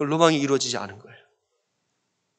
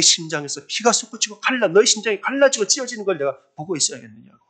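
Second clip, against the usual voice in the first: higher-pitched, urgent retold plea; anguished remonstration; 6 semitones higher than usual. God reproaches his hurting daughter, anguished remonstration. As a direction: voice God's distressed reproach, mildly acted.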